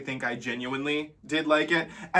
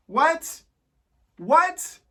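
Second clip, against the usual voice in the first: disbelief; 11 semitones higher than usual. Real, not acted. Disbelief at the live version.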